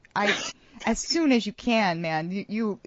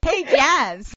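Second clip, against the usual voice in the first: calling out; 6 semitones higher, 6 dB louder than usual. Acted. Calling out to Jazz.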